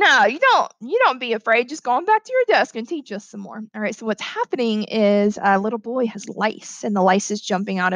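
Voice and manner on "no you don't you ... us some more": lightly voiced helpful schoolboy; a hint of a boy calming his teacher; reassuring boy. Boy sends teacher back to her desk, lightly voiced reassurance.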